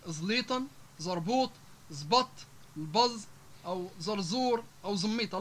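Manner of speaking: heavy, backed z in زليطن and زربوط; emphatic z. Shown as a demonstration. Teacher listing Libyan examples, emphatic z in زميطة. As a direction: say the z of زرزور thick, between ظ and plain z. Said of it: "حرف الزاي المفخمة".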